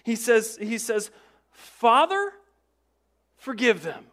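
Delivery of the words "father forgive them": high, loud cry to heaven; Jesus on the cross calling up to his Father. Retold or imitated. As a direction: call it out in anguish. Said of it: "he cries out a couple words".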